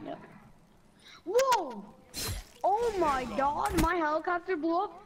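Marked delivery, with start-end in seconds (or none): 1.2-5.0 startled whoa, voice jumps up; surprised. Real, not acted. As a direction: caught off guard by the blast. Helicopter explodes.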